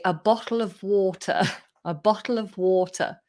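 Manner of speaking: careful British "bottle of water"; British accent with a clear T in bottle. Shown as a demonstration. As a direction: say it in general English, T pronounced. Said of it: "the way that Brits say".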